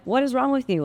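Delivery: imitating her own exasperated reply to her husband; indignant retort. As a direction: fire it back as if he's crazy.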